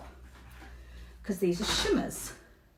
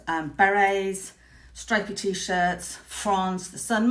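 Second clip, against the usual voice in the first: dreamy; 3 semitones lower, much slower than usual. Real, not acted. Dreamy list of France images.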